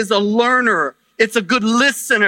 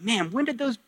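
higher-pitched mock bewilderment; playfully put-on surprise, pitched up; puzzled churchgoer; 4 semitones higher than usual. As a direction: act out a baffled congregant's question and answer. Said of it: "some of you are gonna go like".

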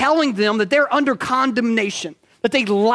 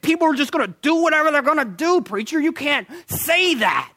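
lightly voiced skeptic scoffing at the preacher; mock objector; 4 semitones higher than usual. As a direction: play the critic, a touch higher. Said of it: "people will say to that".

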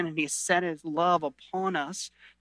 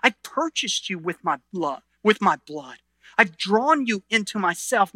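tender Jesus voice. Retold or imitated. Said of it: "what he's saying to you is".

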